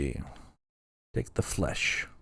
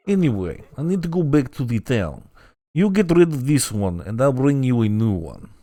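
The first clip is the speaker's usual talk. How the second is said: annoying donkey voice. Acted. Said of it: "The voice is intentionally annoying".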